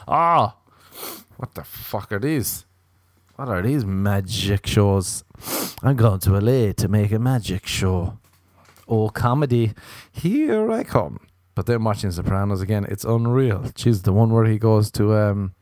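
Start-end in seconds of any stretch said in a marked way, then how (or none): 0.1-11.2 past naive self. Retold or imitated. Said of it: "being like".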